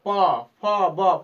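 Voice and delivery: होंठ मिलाकर प, फ, ब बोलना; lip sounds demo. Shown as a demonstration. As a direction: show the lips meeting on प, फ, ब. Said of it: "ऐसे बोलिए आप".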